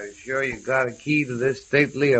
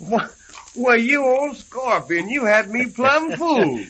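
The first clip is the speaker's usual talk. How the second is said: delighted surprise; 12 semitones higher than usual. Acted. Recognizes old friend, delighted.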